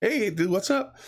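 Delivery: high, laid-back stoner greeting; stoner dude voice. Retold or imitated. Pot dealer greeting the kids, high stoner drawl. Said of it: "he's just like".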